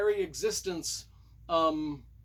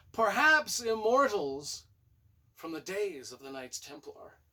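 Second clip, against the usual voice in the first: dramatic teaser; 3 semitones higher than usual. Pretend. Dramatic teaser about hidden immortals.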